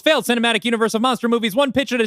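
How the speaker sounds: confident, emphatic newsreel announcer; quick, high, punchy old-time newsreel read; 1930s newsreel announcer. Acted. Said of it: "you read it like a nineteen thirties newsreel".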